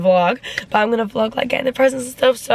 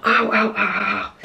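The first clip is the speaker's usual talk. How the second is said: pained ows. Real, not acted. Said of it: "literally fucking hurting".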